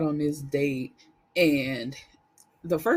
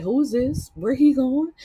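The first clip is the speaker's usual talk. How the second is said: upset grandson; 7 semitones higher, 5 dB louder than usual. Retold or imitated. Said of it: "He like".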